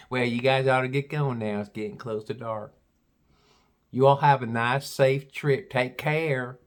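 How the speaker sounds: imitated Southern gal; deep Southern accent. Gal bids visitors goodbye, mock Southern accent. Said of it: "She had a real deep Southern accent".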